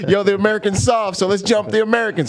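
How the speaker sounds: high, egging-on mock voice; rally the others against the newcomer; mimicked taunt. Locals urging a fight with the Americans, high mimicked taunt.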